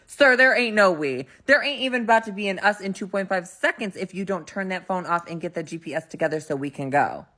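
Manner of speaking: exasperated retort, retold; mock indignant correction; sassy rebuke. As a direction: shut the idea down fast with attitude. Rebuking date's presumptuous "we.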